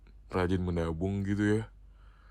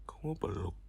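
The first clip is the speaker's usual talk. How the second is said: soft whisper; whispered offer; 4 semitones lower, 10 dB quieter than usual. Real, not acted. Offering her partner a hug, whispered teasingly. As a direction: breathe the question in a whisper.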